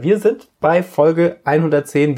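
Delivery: slowed speech after a drink; talking slowly after a big sip; after a sip of mate. Real, not acted. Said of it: "Varianz der Sprechgeschwindigkeit merkt".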